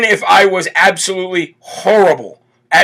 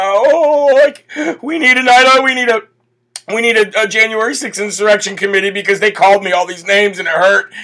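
mocking whiny protester; 2 semitones higher than usual. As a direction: whine like a fake protester who got his feelings hurt. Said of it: "your fake cops that were up there giving".

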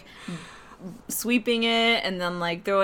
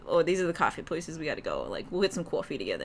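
put-on low-key Boston accent, slightly lower; fake Boston accent; 4 semitones lower, 5 dB quieter than usual. Telling coworker about coffee places, fake Boston accent. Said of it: "it's a fake accent".

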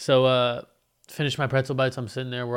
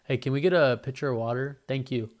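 more douchey. Retold or imitated. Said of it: "that was even more douchey".

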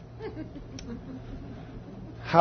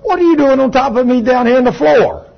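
high, bewildered question; freed woman asking why he is on top of her; confused woman; 8 semitones higher, 4 dB louder than usual. Retold or imitated. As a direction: sound suddenly lost and puzzled. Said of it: "she says".

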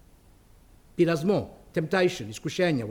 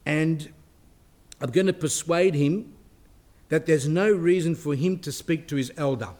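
devil voice; 3 dB louder than usual. Retold or imitated. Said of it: "that's why he says".

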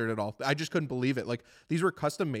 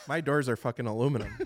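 laughing realisation. Retold or imitated. Realising doors are aluminum.

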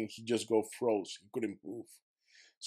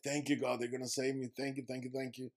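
fading grateful prayer; 2 semitones higher, 6 dB quieter than usual. Retold or imitated.

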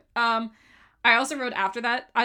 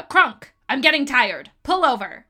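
slow, louder whiny demand; imitating Yzma; 8 dB louder, slower than usual. Fan quoting Yzma complaining to Kronk, slow whine. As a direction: drag it out like a spoiled villain. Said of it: "and she goes".

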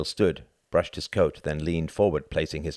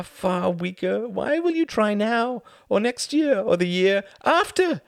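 much higher, louder scornful voice; mocking envoy; 5 dB louder than usual. A narrator's reading. Envoy mocking Churchill, high and scornful. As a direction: scoff at him. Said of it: "He laughed again".

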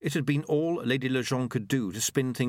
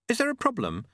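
high, timid clockmaker voice; meek high-pitched question; diffident; 13 semitones higher than usual. A narrator's reading. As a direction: ask it hesitantly, pitched high. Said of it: "in the diffident voice he used".

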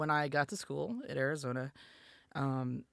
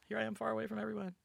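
mock lament; 7 semitones higher, faster than usual. Retold lonely tearful moment.

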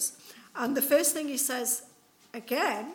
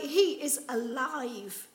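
insisting; 2 semitones higher, 7 dB louder, slower than usual. Retold or imitated. Disciples insisting to Thomas.

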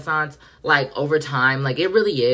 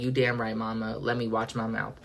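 soft, lowered mock apology; meek apology; 4 semitones lower, 9 dB quieter than usual. Fan backing down to a singer, softly and meekly. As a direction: shrink back and apologize softly. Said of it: "And I was like".

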